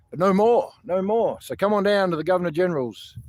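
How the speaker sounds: a fired-up crowd-rouser; defiant shout. Real, not acted. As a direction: belt it out like a protest chant. Rallying crowd to protest.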